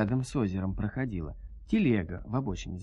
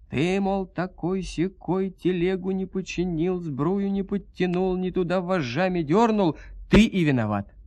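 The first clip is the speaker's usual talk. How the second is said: higher scolding nag, building louder at the end; nagging wife; 7 semitones higher, 3 dB louder than usual. Acted. Wife blames Agafon for the stuck cart, higher nagging scold. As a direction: scold the husband like a shrew. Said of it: "всю вину за все грехи всегда на Агафона валить".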